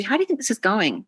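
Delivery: open, curious asking; truly want to know the answer; sincere open question; genuine question. Shown as a demonstration. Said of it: "there's a genuineness to the question".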